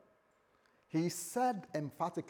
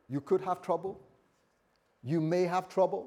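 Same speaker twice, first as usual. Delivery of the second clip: raised, tentative-sounding mock quote; hypothetical misquote; 4 semitones higher, 5 dB louder than usual. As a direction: float it higher as a mere possibility. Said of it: "No, he didn't say that".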